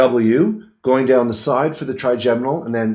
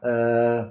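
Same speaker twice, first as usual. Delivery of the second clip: demonstrated tongue-out "uh"; 5 dB quieter than usual. Shown as a demonstration. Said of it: "just like that".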